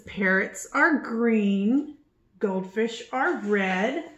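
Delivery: slow, gentle storybook reading; reading to children. A narrator's reading. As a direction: read it aloud to little ones, unhurried. Reading the book aloud.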